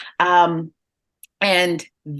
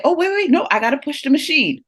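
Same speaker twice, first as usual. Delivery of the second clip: put-on high, eager little-girl voice, lightly done; a mock toddler's bright rush; imitating toddler; 7 semitones higher than usual. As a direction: play the two-year-old jumping in to help. Toddler daughter quoted eagerly helping.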